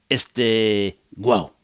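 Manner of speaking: lightly mock bark, este guau; a hint of a dog going este guau. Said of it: "How does a dog from Argentina bark?".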